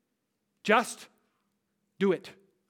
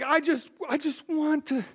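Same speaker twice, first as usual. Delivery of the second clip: higher, lightly mocking starry-eyed voice; dreamy roommate; 8 semitones higher, 4 dB louder than usual. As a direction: gush about a fantasy romance. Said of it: "he's like".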